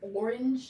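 "Orange" loud, in two full syllables, "OR-inj"; "Orange" with every sound pronounced; whole word pronounced. Shown as a demonstration. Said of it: "you're saying the whole word".

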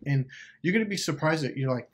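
usual speaking voice

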